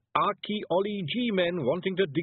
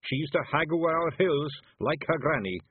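higher, warm-hearted Scots boast; proud; 7 semitones higher, 3 dB louder than usual. Acted. Rob Anybody praising the young hag, proud. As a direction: declare it with pride. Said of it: "he added proudly".

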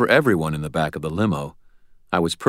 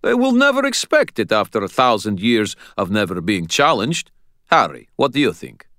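Sonya's voice; 5 semitones higher, 5 dB louder than usual. Acted.

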